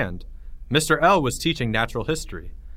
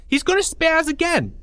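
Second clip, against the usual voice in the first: very high mocking sing-song; taunting announcement; 3 dB louder than usual. Porge announcing to the lunchroom, very high mocking. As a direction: crow it to the whole room. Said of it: "Porge announced to the lunchroom".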